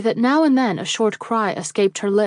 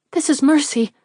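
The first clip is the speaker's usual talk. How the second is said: grateful cry; 6 semitones higher than usual. A narrator's reading.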